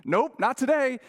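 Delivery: loud, high, emphatic no; firm refusal. Retold or imitated. Preacher refusing the critic's note, loud and firm.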